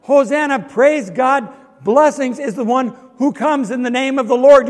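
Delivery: retold crowd's hosannas. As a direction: proclaim it like a jubilant crowd, without full shouting. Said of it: "they raised their voices".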